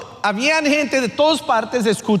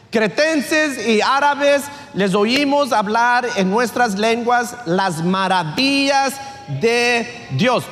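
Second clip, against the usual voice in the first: scripture reading; slower than usual. Acted.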